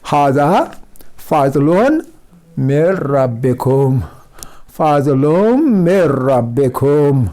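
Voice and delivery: slow, drawn-out Arabic recitation with the nun merged into ra; Quranic recitation demo. Shown as a demonstration. Quran teacher demonstrates the merged recitation for students, slowly. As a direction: recite हाज़ा फजलुन मिर रब्बिकुम slowly, merging the nun into the ra. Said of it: "मिन रब्बिकुम जो पढ़ना था हमने".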